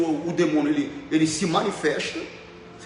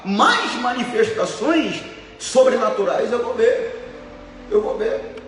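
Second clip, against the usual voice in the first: slow emphatic preaching; 3 semitones higher, slower than usual. Acted. Preaching climax.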